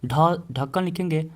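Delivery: ढ drawn out, then ढक्कन said slowly; teacher spelling ढक्कन for the class; slow spelled-out demo. Shown as a demonstration. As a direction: sound out ढ before ढक्कन. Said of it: "जैसे ढक्कन".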